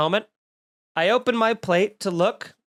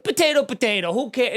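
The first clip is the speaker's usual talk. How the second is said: mocking dismissive restaurant. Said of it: "The audacity to be like".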